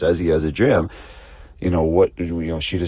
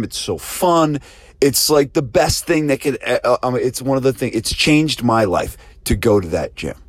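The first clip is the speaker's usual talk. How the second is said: higher, lively raving praise; gushing testimonial; 5 semitones higher than usual. Acted. Happy client gushing to Janet about Michael's gym, excited and higher. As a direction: rave about the gym like it changed your life.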